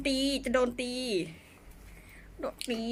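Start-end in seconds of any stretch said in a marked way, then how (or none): 2.4-2.8 1 whispered threat. Real, not acted. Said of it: "เสียงดังไม่ได้ อยู่คอนโด".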